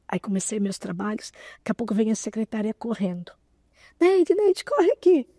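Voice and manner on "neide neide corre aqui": excited high call across the room, louder; urgent call. Retold or imitated. Secretary rushing in, calling Neide with a loud urgent call. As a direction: call her name urgently, rising.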